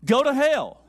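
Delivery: loud, high acted outburst; mock-angry shout; mad, upset. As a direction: hurl it out like an angry curse. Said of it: "They are upset and they're mad at you".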